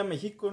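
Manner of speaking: México with the accent off its first syllable; stress shifted in México. Shown as a demonstration. Explaining to friends why the accent exists, México wrongly stressed. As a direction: say México as if it had no written accent. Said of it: "porque si no diría".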